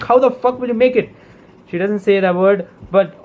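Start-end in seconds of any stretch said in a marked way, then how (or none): 0.0-1.1 high, exasperated mom voice, a touch mocking; imitating angry mom. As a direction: snap back like an irritated mother. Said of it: "she gets mad".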